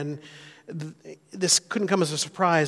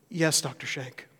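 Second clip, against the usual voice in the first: quivering voice; 3 semitones lower, 6 dB quieter, slower than usual. Retold or imitated. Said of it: "I hear a quivering voice say".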